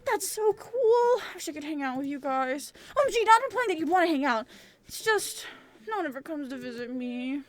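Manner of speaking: lightly voiced troll, bright then sinking; a troll gushing, then admitting no one visits; eager lonely troll.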